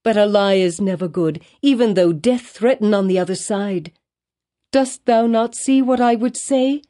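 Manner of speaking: high, urgent pleading, rising to a near cry; pleading confession. A narrator's reading. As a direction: beg forgiveness while confessing the truth. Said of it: "cried she".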